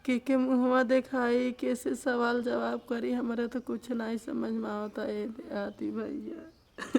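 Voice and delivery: real tearful, helpless plea; crying. Real, not acted. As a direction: cry through the words, at a loss. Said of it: "एक रोइए मत". (रोते हुए, बेबस स्वर में)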